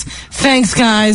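put-on drunken "Thanks, guys"; slurred like after a few drinks; drunk talk. Shown as a demonstration. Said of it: "when I'm drunk, I talk like this".

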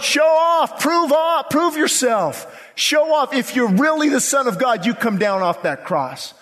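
high, jeering challenge; preacher acting out a scornful crowd's dares; mocking taunt. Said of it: "But the mocking crowd".

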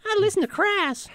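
put-on very high, sneering punk kid; crust punk voice. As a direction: sneer it like a snotty teenage punk. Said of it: "And you're like".

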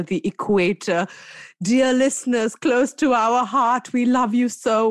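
lightly pompous welcome to listeners; hammed-up radio host greeting; mock grand address. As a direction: address the world like a mock dignitary. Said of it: "I love this mood you're in".

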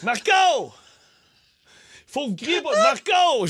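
crie Marco plus haut; appel de jeu. Retold or imitated. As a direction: appelle les enfants dans la piscine. (crie Marco, voix haute)

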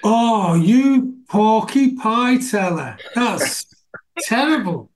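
drawn-out, teasing telling-off; mock scolding. Host ribbing guest for fibbing to parents, mock scolding. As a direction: scold playfully, stretching the words into a laugh.

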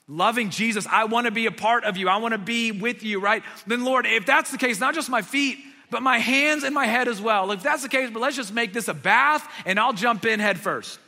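Peter begging for a full bath; eager and rushing; overeager Peter. Retold or imitated. Peter's overeager plea, voiced.

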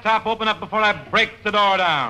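demanding. Acted. Detective pounding on door.

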